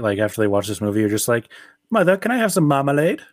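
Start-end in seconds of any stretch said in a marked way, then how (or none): 1.9-3.2 put-on high-pitched little kid asking mother for a treat; pleading child. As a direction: play an eager child, pitched well up. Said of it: "how many kids after the movie".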